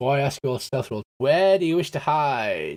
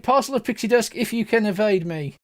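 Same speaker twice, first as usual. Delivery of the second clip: high-pitched little pixie call; pixie Starbug; 7 semitones higher than usual. Acted. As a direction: pitch it up as a pixie inviting playmates. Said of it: "says Starbug".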